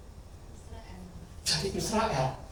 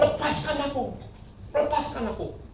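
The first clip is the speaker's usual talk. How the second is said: God's voice; 8 semitones higher, 6 dB quieter than usual. Retold or imitated. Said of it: "Dia ngomong".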